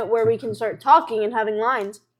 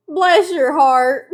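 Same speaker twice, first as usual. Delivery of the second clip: put-on southern accent; 3 semitones higher, 4 dB louder, slower than usual. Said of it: "I get to speak in a southern accent".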